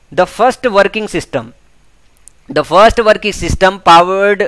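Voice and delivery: slow, measured passage reading; dictation-style reading. Acted. Teacher reading an exam passage to students, slow and deliberate. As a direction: read word by word with pauses between phrases.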